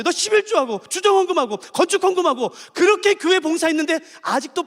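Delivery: a jeering tempter's sneer; taunting Satan. Acted. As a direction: needle the believer with mocking doubt. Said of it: "우리에게 이렇게 공격하는 거예요". (신자를 조롱하는 사탄 말투)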